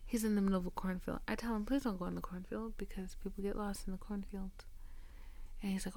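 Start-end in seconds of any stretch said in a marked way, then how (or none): 1.7-4.5 softer, whispered caution; hushed warning. Retold or imitated. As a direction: warn him in a hush. Warning him about cornfields.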